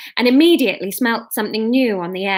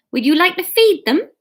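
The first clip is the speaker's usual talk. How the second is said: put-on Bristolian accent; 8 semitones higher, 4 dB louder than usual. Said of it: "let's make them Bristol".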